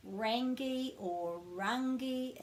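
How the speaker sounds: "Rangi" said slowly with a hard g, as mistaken examples; wrong hard ng. Shown as a demonstration. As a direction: sound the g in each "Rangi", two wrong versions. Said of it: "So this won't be".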